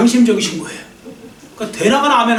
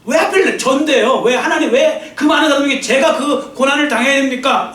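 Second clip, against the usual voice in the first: whining complaint; 3 semitones higher than usual. Retold or imitated. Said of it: "하면서 불평하고 원망하죠".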